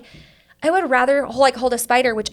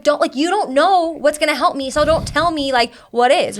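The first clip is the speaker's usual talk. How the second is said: retold anger; 4 semitones higher than usual. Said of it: "And I was pissed".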